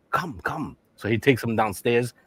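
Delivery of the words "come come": softer, higher mock Chinese accent. Shopkeeper beckons the customer, mock Chinese accent. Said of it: "this Chinese man comes out".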